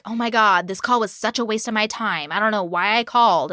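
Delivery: imitating a bratty complaint; mock bratty. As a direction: gripe like a spoiled brat, lightly imitated. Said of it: "all this bratty shit".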